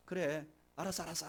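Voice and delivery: quiet, brush-off agreement; softly acted token okay; half-hearted acknowledgement. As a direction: murmur it as if just placating someone. Half-hearted listening, not real encouragement.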